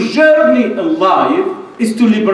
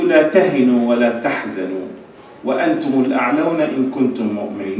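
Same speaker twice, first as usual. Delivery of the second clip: low, measured verse quotation; Quranic recitation; 7 semitones lower, 4 dB quieter, much faster than usual. Acted. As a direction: drop low to recite scripture. Recites a Quran verse mid-speech.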